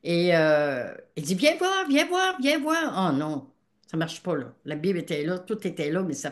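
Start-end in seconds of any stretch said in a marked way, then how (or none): 1.3-1.8 high, loud call. Retold or imitated. Husband Gilles calls his wife over at 2 a.m., a high loud call. Husband calling her at night. 1.9-3.0 high, loud and slowed call; slower calling. Retold or imitated. Husband Gilles keeps calling his wife over, a slower high loud call.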